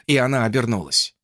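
ordinary delivery, nothing marked

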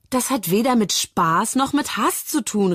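höher, empört gerufen; aufgebracht rufend. Acted. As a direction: aufgebracht widersprechen. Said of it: "rief Moritz aufgebracht". (Moritz widerspricht Mia aufgebracht, höher gerufen)

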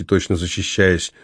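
usual speaking voice

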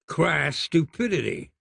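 usual speaking voice

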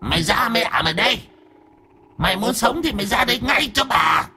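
put-on high-pitched drunk ghost voice; drunken slurring. A narrator's reading. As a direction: slur out high, drawn threats like a drunken ghost. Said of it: "cái giọng lè nhà lè nhè".

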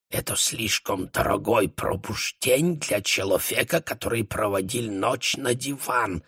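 put-on soft German-accented murmur; whispered aside. A narrator's reading. The baron whispering to Europe in a German accent. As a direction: hush it into her ear. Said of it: "шепнул он на ухо Европе".

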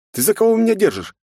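high, loud outraged question; indignant yell. A narrator's reading. Young man yelling at the girl who calls him a demon. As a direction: demand it, fed up. Hero arguing furiously.

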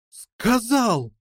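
mild excited cry. A narrator's reading. Listeners echoing the jackdaw's news, mildly crying out. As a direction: cry it out, without much volume. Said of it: "в один голос закричали переплётчик".

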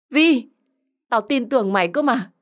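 high-pitched, hurt protest; wounded, pleading exclamation; betrayed outcry. Acted. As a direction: cry out the name, then protest in disbelief. Betrayed friend cries out.

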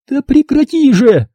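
high angry cry; angry shout. Acted. Lauren shouts at mother, standing up, high and angry. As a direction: throw it at her. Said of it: "воскликнула Лорен".

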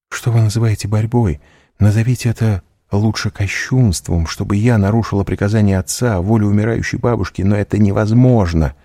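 put-on a frightened girl refusing to defy her family; high, tense, protesting young woman; Valentina, distressed. Valentina voiced by narrator.

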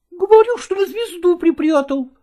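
put-on a little boy insisting. Boy answering his mother, high and childish.

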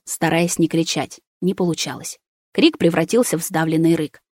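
plain reading voice

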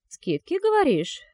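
sudden high rising interest; suddenly eager at the word; perking up. A narrator's reading. Perking up at sales. (оживлённо, с подъёмом)

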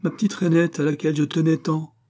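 high, loud indignant lament; furious cry. A narrator's reading. Husband losing his cherished frog, furious cry. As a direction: wail in outrage over the loss. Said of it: "cria monsieur Lahuche furieux".

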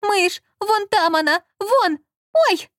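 high, loud frightened squeals; a shrill terrified squeal to her partner; panicked squeal. Acted. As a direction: shriek in panic at the mouse. Лола взвизгнула.

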